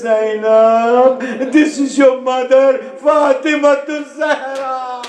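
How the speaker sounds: mildly high, grieving mother's voice; mournful reveal. Acted. Fatima revealing herself to Zainab, mild mournful voice. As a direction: reveal yourself gently in sorrow. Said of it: "And she says".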